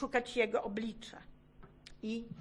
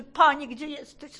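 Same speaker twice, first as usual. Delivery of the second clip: retold cry; 3 semitones higher, 6 dB louder than usual. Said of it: "I krzyczę".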